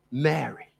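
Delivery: just say her name, softly and low; simple call of her name. Acted. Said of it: "Jesus says very simply".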